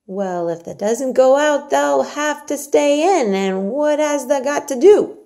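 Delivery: high, loud, slow, hearty Yorkshire maid; Yorkshire maid Martha. Acted. Martha urges Mary to eat her porridge, hearty and coaxing. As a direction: coax the child like a bossy country servant.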